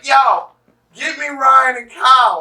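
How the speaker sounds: high, loud mock yell of a drugged friend; retold screaming. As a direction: yell for your buddies while being carried off. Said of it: "the whole time he's screaming".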